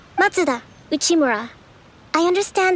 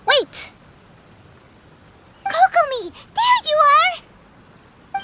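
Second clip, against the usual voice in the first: calling out; 13 semitones higher, much slower than usual. Acted. Paimon bursts in calling out.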